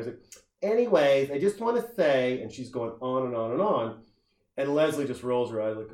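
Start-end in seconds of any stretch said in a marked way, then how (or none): 0.7-2.4 imitating a tipsy-sounding bar chatterer, a bit higher; loud bar girl. Girl at the bar going on and on, mock chatty voice. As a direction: play the girl holding forth at the bar. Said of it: "this girl's walking in".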